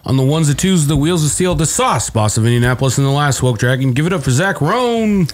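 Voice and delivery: upbeat announcer welcome; podcast host intro. Acted. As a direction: open the show like a radio host. Host hypes the DJ.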